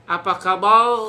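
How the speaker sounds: Apa kabar loud with a guttural r; lisping speaker. Shown as a demonstration. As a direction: imitate a lisp on the r. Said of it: "eh-nya itu kan nggak".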